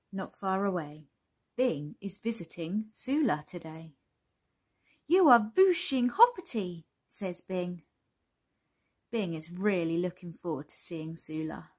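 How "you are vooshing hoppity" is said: put-on higher, lively storybook child; a hint of an eager little character; lightly voiced excited child character.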